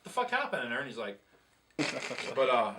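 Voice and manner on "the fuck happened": bewildered. Retold or imitated. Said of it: "I'm like".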